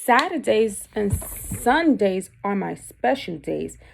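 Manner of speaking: slow, storybook read-aloud; reading to children. Acted. Teacher reading aloud to her class, slow storybook voice.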